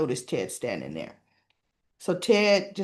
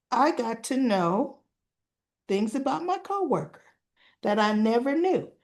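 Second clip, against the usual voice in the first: teasing hint; 4 semitones higher than usual. Retold or imitated. Ted hinting to Ashley about his coworker, teasing hint. Man teasingly hints at a secret.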